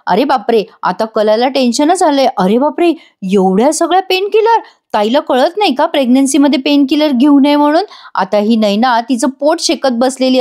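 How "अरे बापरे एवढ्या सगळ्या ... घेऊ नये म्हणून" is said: shocked gasp. Acted. Kala finds painkillers in Naina's parcel, shocked high voice. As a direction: voice jumping high in alarm.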